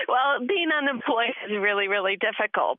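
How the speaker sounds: shaky voice steadying after laugh. Real, not acted. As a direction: pull yourself together, voice wavering. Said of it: "You sound emotional".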